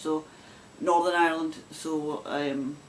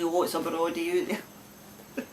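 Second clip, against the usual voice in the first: mock broad Scots; slower than usual. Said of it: "many people will say".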